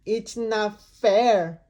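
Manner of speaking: slow, loud grumble; sulky complaint. Acted. Pigeon protests the unfairness, slow sulk. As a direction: drag it out in a huff. Pigeon sulks after outburst.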